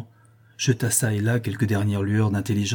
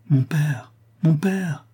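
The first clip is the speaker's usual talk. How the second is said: higher-pitched, worried appeal; anxious calling; 6 semitones higher, 4 dB louder, slower than usual. A narrator's reading. Daughter calls her distracted father, anxious calling. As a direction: call to someone who is not responding.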